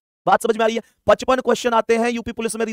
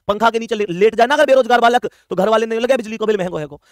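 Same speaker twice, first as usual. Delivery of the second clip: raised-voice imitation of a nagging parent; mock parental scolding; 3 dB louder than usual. Family grumbling at their jobless boy, mock scolding.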